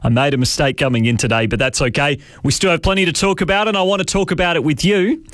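talking through a raspy voice; real raspy voice, sore throat. Real, not acted. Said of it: "I've got a rather raspy voice".

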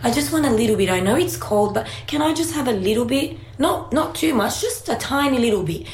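lightly voiced little boy, sweetly begging; a hint of a small son asking nicely for ice cream; mild wheedling child voice; pleading child. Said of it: "he looked at me and goes".

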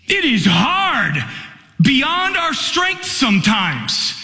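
preaching the hardship of mission work, slow and fervent; impassioned preaching. Acted. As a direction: lean into each short line like a sermon climax. Preaching at full force.

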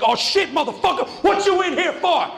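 high, loud mock inmate jeering; hammed-up excited heckle; rowdy inmate. Inmates pounce on the crying kid.

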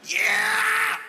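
very high yell to the crowd; hype shout. Real, not acted. Comedian hyping the crowd, very high shout. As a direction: whoop to pump up the room.

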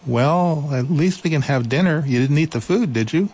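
high, kind mouse voice; reassuring little mouse. Acted. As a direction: comfort him in a high little voice.

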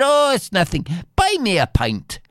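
high, offhand modesty; modest hero. Acted. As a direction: brush off the praise lightly. Hero shrugs off praise.

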